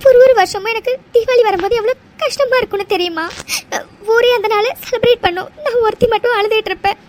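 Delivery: tearful outpouring, voice catching; crying. Acted. Telling him why Diwali hurts her, crying. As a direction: speak through tears about being abandoned. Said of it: "அழாத".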